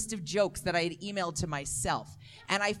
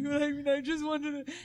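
whiny younger self; 5 semitones higher than usual. Retold or imitated. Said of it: "And I was like".

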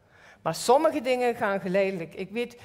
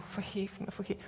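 pleading; 2 semitones lower, 11 dB quieter than usual. Retold or imitated. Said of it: "naar God toe".

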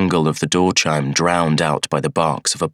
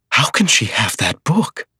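gasped; 7 semitones higher than usual. A narrator's reading. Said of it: "he gasped".

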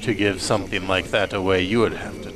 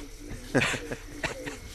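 smoker's laugh into cough; 6 semitones higher, 9 dB quieter than usual. Acted. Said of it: "that turns into a cough".

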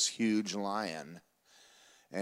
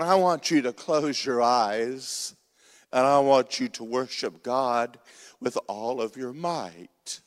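slow, louder, solemn lion giving orders; wise lion's command; 5 dB louder, slower than usual. Acted.

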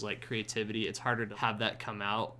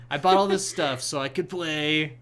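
lightly voiced, slightly higher and louder; mock nerd brag; 4 semitones higher, 6 dB louder than usual. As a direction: tease like a proud gear nerd. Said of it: "It's like".

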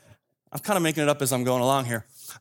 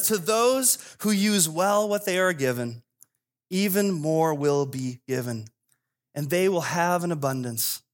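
scripture reading. Acted. Preacher reads Jesus' closing words to congregation, solemn and measured. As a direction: deliver the verse in measured phrases, with long pauses.

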